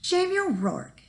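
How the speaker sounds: high, sharp call of his name; scolding wife. Acted. Wife Eileen nags lazy Jamie to dig potatoes, scolding. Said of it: "his wife Eileen would say".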